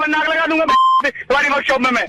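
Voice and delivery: real anger at the garage man; furious phone complaint; angry. Real, not acted. Prank victim furious at mechanic.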